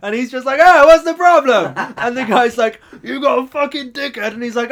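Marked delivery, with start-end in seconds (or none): 0.6-1.7 high, very loud mock challenge; hammed-up shout; imitated confrontational chef. Retold chef joining the row. 3.0-4.3 high, loud mock insult; retold yelling; imitated angry customer. Retold insult in kitchen row.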